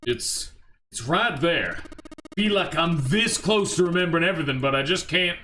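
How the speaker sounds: straining for a lost memory, rising in pitch; mildly frustrated, halting then pushing on. Acted.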